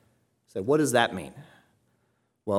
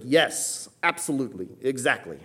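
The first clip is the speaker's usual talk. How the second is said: firm stress on Yes, absolutely, exactly; a touch of emphasis on each word; emphatic affirmation; 2 semitones higher than usual. Shown as a demonstration. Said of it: "like an emphatic affirmation".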